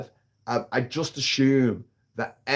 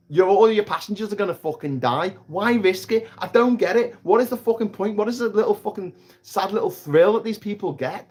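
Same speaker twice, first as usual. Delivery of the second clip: exasperated rant; 7 semitones higher than usual. Real, not acted. Ranting about reckless drivers.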